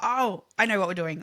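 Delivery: ordinary talk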